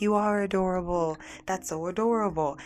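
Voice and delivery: lifted, gushing compliment; mildly hammed-up adoring reaction; delighted imitation. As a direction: imitate people melting at something cute. Imitates delighted people reacting to name.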